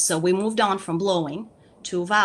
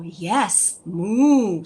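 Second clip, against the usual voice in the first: encouraging reply; 6 dB louder than usual. Shown as a demonstration. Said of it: "you can go".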